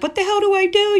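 high, loud panicked outburst; freaking out, retold. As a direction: act out a panic, pitch shooting up. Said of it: "I'm freaking out".

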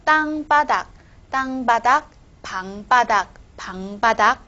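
"巴" in "当巴达" and "庞巴达" hit as a hard tense p; tensed consonant. Shown as a demonstration. Teacher reading examples for students, "巴" tensed in "当巴达" and "庞巴达". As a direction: model "当巴达", "庞巴达" firmly with a tight, unaspirated "巴". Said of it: "这个帕达也是一样".

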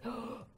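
sharp gasp of fright; a child gasps at a bad dream; frightened gasp. Shown as a demonstration. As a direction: gasp as if the monster is there. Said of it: "But let's say they say".

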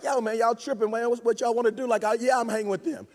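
softly voiced laid-back gangster. Jesus imagined answering his critics, lightly voiced gangster. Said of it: "he's just so, like, gangster".

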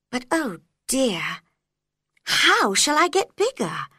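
put-on bright girlish Alice voice; young girl voice. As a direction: speak as a small curious girl. Alice's voice in story.

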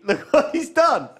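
high, slow, laughing cry. Real, not acted. Voice shifted high by Steve.

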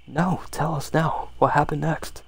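lightly voiced boys' protest, drawn out; boys protesting. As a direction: beg like eager kids for the rest of the story. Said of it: "a cry of protest from the boys".

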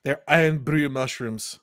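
lightly put-on Scottish brogue; Scottish accent. Naming the psychedelic mushrooms, mock Scottish accent. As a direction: say it with a touch of mock Scots. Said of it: "a Scottish accent".

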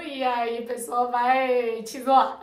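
breaks into a laugh at the end; amused, laughter spilling out. Real, not acted. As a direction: say it chuckling, laughter taking over. Laughs at imagined teasing.

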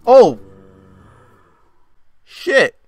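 very high, loud startled cry; jolted by a sudden hit; startled shout. Real, not acted. Gamer hit out of nowhere, loud high startled shout.

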